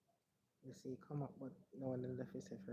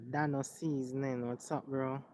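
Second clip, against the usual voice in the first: louder, projected hello to the viewers; host greeting; 10 dB louder, slower than usual. Real, not acted. Streamer welcoming viewers as the broadcast starts, louder host greeting.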